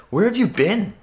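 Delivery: high-pitched, baffled friends; retold incredulous question, pitched high; acted astonished question. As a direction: imitate friends demanding an explanation. Friends react to his return.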